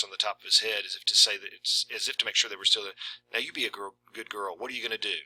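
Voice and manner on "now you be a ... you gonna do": much softer, hushed coaxing; dipped voice. Retold or imitated. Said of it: "his voice dipped".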